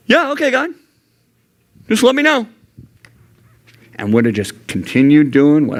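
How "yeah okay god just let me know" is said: high, breezy and dismissive; dismissive brush-off. Retold or imitated. Youth pastor brushing God off, airy and dismissive. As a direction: wave God off with a bright, careless yeah okay. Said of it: "I would have been like".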